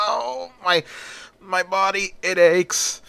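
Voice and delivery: acted agony, high-pitched; in pain. A narrator's reading. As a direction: groan it out as pain suddenly hits. Villain suddenly struck by pain.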